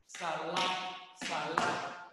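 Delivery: "salap" as two syllables, sa-LAP; loud "salap", vowel splitting the cluster; vowel inserted. Shown as a demonstration. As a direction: put an "a" between s and l in "salap". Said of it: "le ponen una vocal".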